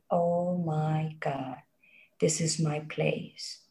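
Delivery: slow, soft, amazed; a slow, hushed "oh my God" of discovery; hushed awe. Retold or imitated. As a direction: breathe it out in quiet wonder. First opening the jungle door.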